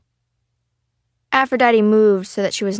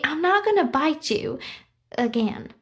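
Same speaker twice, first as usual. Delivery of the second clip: put-on higher, hurt young girl; 7 semitones higher, 3 dB quieter than usual. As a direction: protest weakly, hurt. The speaker protests.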